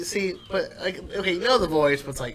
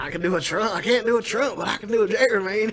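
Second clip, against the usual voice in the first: redneck Jerry voice; 8 semitones higher, 3 dB louder than usual. Acted. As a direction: lay on a thick redneck accent. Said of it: "a little too redneck".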